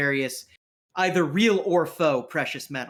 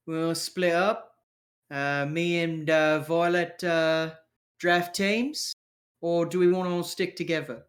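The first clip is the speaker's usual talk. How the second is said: gang member character; 2 semitones higher than usual. Acted. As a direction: float the plan as a rough-edged crew member. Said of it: "he's like".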